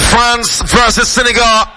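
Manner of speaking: slow, drawn-out shouted match call; radio announcer calling out the fixture; announcing the match. Real, not acted. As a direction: belt out the fixture slowly.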